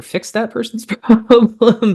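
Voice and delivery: chuckling mid-sentence; amused, laughing. Real, not acted. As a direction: let a laugh bubble up as you talk. Amused recalling a pathological case.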